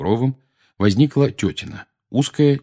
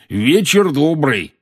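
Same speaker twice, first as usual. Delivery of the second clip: slow, high, louder greeting call; 7 semitones higher, 5 dB louder, slower than usual. A narrator's reading. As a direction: shout a neighbourly hello across the street. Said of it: "крикнул дядя Вернон".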